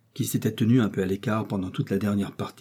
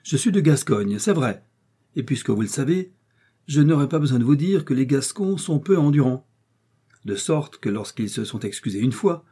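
quarrelsome; 6 semitones higher, 4 dB louder than usual. Acted. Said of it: "le naturel querelleur commençait à parler plus haut".

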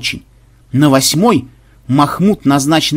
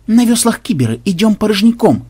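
high-pitched character voice; crewman's report; 7 semitones higher than usual. A narrator's reading. Crewman reporting to the boss after inspecting the galley, high voice. Ксенобайт докладывает капитану.

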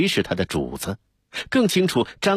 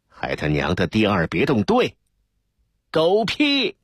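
cursing rant; 4 semitones higher than usual. A narrator's reading. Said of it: "指着杨守民的鼻子骂开了".

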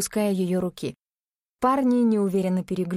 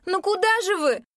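calling after them; 11 semitones higher than usual. A narrator's reading. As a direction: shout after the backs of runners. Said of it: "крикнула она".

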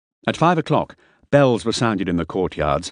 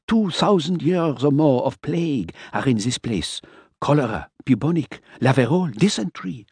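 higher, fussy man's voice; fussy character voice; 7 semitones higher than usual. Acted. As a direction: lecture it in a higher voice. Miller's speech voiced.

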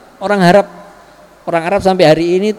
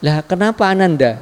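gentle fatherly. Retold or imitated. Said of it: "bahasanya sangat lembut".

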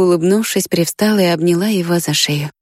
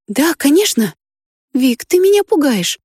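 put-on higher girl voice, scared; frightened girl's voice; 8 semitones higher than usual. A narrator's reading. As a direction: tell him he is frightening you. Risha frightened.

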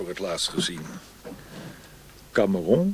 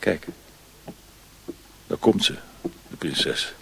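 slow, hushed aside; slow whisper; 2 semitones lower, slower than usual. Acted. Former officer pointing out the princess to a friend, slow whisper. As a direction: whisper it slowly as she approaches.

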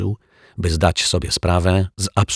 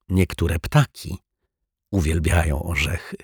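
smiling. Acted. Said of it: "uśmiechnął się detektyw".

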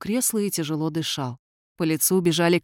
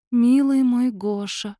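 a faint ghostly woman's voice, high and slow; weak female voice; 5 semitones higher, slower than usual. A narrator's reading. The late wife's spirit calls to Gosha, faint and slow. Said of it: "Слабый женский голос".

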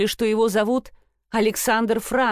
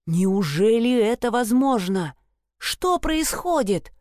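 stunned disbelief. Acted. Narrator stunned by father.

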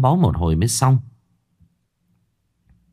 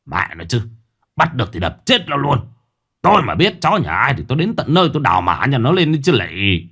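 father's threat. Acted. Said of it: "Đoạn quay sang nói với vợ".

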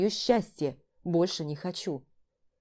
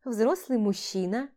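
slow, high languorous purr; languid; 4 semitones higher, slower than usual. Acted. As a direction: draw it out seductively. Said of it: "томно произнесла".

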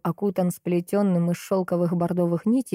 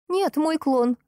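sharp high retort, lightly shouted; 9 semitones higher, slower than usual. Acted. Kira shouts a sarcastic retort back at Maxim, high and mocking. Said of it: "выкрикнула я Максиму".

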